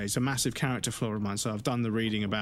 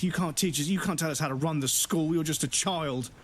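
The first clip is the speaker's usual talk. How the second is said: mock teachers; 4 semitones higher than usual. Mimicking flustered teachers.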